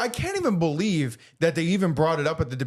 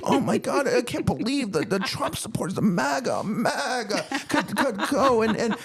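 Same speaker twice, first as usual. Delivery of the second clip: mock scared liberal; 4 semitones higher than usual. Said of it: "And if you actually believe".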